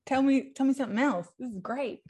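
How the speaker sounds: eager and quick; bubbling over with excitement; excited. Real, not acted. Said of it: "I'm too excited".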